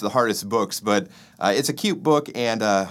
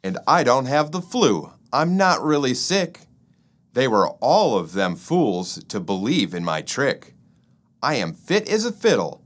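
gloating; 3 semitones higher than usual. Acted. Fred gloating about his trick.

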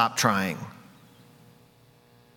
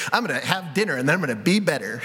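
mock resolve; faster than usual. Mocking self-talk plan.

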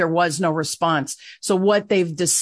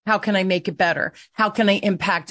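gentle self-talk. Shown as a demonstration. Guest shows women how to speak kindly to themselves. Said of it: "have grace of self and say".

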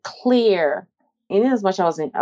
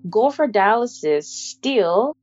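imitating the caller; 5 semitones higher, slower than usual. Voicing the caller with news.

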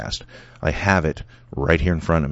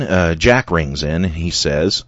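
usual speaking voice

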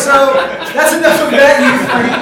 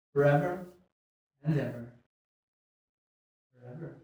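hushed, intimate vow, much softer; mock-tender whisper of devotion; breathy devotion; 3 semitones lower, 6 dB quieter, faster than usual. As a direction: lean in and promise forever softly. Improv friend being overly devoted.

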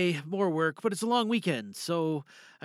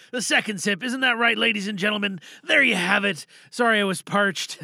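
louder hammed-up toast to the listeners; mock announcer; 3 semitones higher, 5 dB louder than usual. Real, not acted. Performer jokes to the listeners about his drink, loud and hammy. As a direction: present the sip like a game-show host.

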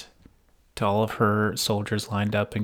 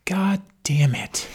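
whispered curse; 9 semitones higher, slower than usual. Retold or imitated. Jon's conflicted aside.

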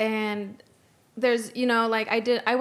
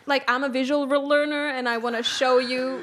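raised, emphatic self-quote; insistent explaining; 3 semitones higher than usual. Retold or imitated. Guest showing strangers Google Maps, insistent explaining. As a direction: press the point, pleading not to seem rude. Acting out her map explanation.

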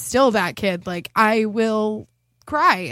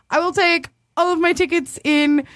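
slow, higher, deliberate announcement; mock-formal candy order; 4 semitones higher than usual. Date ordering candy at the counter, mock-formal. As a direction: announce each word with mock ceremony.

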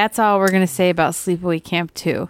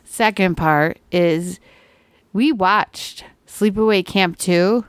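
slow, even robot monotone; slower than usual. Shown as a demonstration. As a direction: speak like a robot, same tone throughout. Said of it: "oh, wait, I have to be a robot".

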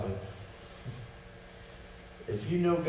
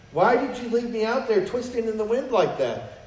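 angry prayer; 9 semitones higher, 4 dB louder than usual. Pretend. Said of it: "Or I'm angry".

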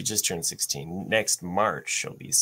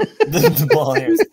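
laughing squeal; 9 dB louder than usual. Real, not acted. Laughing echo of joke.

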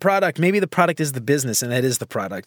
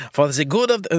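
botched attempt at a German accent. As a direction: slip into a rough German accent. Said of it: "I was doing German".

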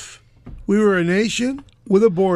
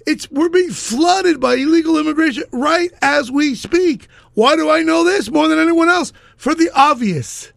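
angry; 5 semitones higher than usual. Real, not acted. Exasperated ranting at opponent.

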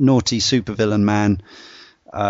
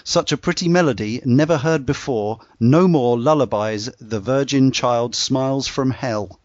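spoken lyric recitation; 2 semitones higher than usual. Shown as a demonstration. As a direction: recite the verse line by line, without singing. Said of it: "I'm not gonna sing it".

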